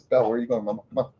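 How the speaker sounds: ordinary talk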